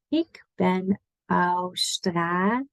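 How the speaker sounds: Australisch with a plain s, not sh. Shown as a demonstration. Teacher showing the correct s sound. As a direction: hiss the s in Australisch like a snake. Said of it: "Just an S like snake".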